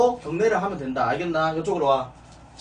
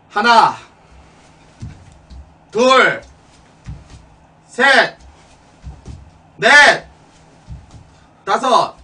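drill sergeant; 6 dB louder, much slower than usual. Acted. Drill instructor counting reps.

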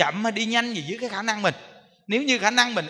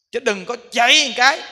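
louder, pushing forward on chạy; bursting ahead, louder; emphatic rush; 3 semitones higher, 7 dB louder than usual. Shown as a demonstration. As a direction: surge ahead with energy. Demonstrating rushing forward then back.

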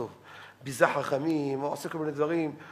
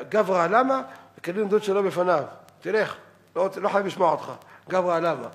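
forceful, slightly raised ruling; retold firm rebuke; 4 dB louder than usual. Rabbi Weiss dismisses the offended sage, firm and forceful. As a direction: imitate an uncompromising rabbi dismissing someone. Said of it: "הוא היה תקיף".

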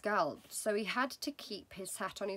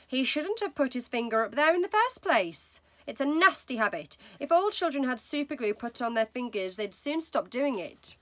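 louder, higher lecturing mother; wife's voice; 4 semitones higher, 5 dB louder than usual. Acted. Mother lecturing about nose picking, loud and preachy. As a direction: moralize with relish, louder. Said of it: "Missus Wormwood said".

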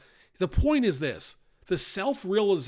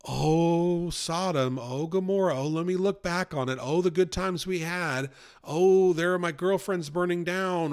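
mock lament; 3 semitones higher than usual. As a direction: play Lot's wife sighing over what she left. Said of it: "instead of being like".

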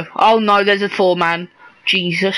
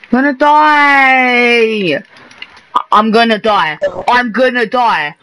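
mock panic; 4 dB louder than usual. Real, not acted. Downed, begging for revive.

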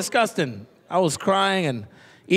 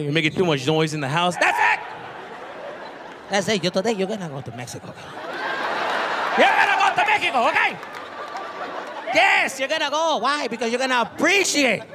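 put-on raised, stern parent lecturing the kid; scolding parent; 4 semitones higher than usual. Dad threatening spoiled son with Mexico trip. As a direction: scold him like an exasperated dad.

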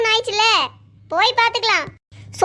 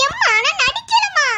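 slow, higher whine insisting she is not pretending; whiny pleading; 4 semitones higher than usual. Daughter whining to mother, slow plea. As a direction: drag it out like a sulky plea.

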